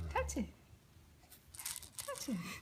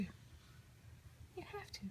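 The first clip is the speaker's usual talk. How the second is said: a very slow, much softer, breathy whispered coax; 9 semitones higher, 14 dB quieter, much slower than usual. Real, not acted. Mother coaxing baby to talk.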